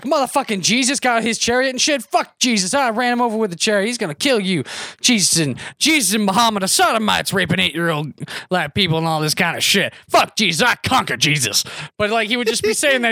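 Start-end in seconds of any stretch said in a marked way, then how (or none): 0.0-11.6 lightly voiced ranting man at a bus station; mildly acted crazed rant; ranting street preacher. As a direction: imitate a man raving about Jesus. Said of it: "and he's being like".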